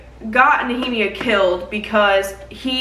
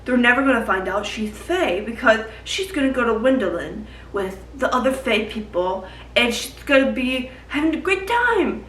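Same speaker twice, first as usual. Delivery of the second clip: mock cheerful plan; 3 dB quieter than usual. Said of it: "He's like".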